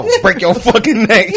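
laughing quote. Retold or imitated. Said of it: "Gabe Brown".

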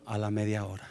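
low, soft, ominous aside; hushed suspense. Real, not acted. Speaker setting up the third breakdown, hushed. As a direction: drop the voice for the next setback.

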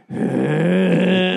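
dad's mock spooky noise; imitated ghost noise. Host retells dad joining the scare, mock ghost noise. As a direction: make a playful ghostly noise. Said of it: "then I hear Dad going".

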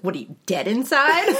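high, laughing mock outrage; laughing retort. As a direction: toss it off with a laugh. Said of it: "I was like".

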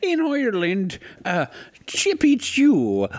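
put-on very high, loud comic Russian accent; slow, squeaked-up mock Russian. Told to say something Irish in Russian, Russian accent. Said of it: "Say something Irish, but in Russian".

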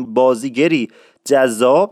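جذاب with a hard, emphatic ج; strong Isfahani j. Shown as a demonstration. Teacher showing the strong Isfahani ج sound.

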